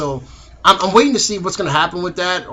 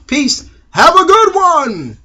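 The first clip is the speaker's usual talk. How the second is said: big outro sign-off; 11 semitones higher, 8 dB louder, much slower than usual. Real, not acted. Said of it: "outro sign-off".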